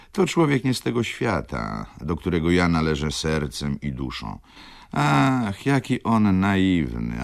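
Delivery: lightly voiced lively widow, wry and animated; lekko zagrana żywa wdówka. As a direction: play the worldly widow sizing up her suitors, lightly. Voices flirtatious widow in dialogue. (lekko odegrana, żywa i kpiąca wdówka)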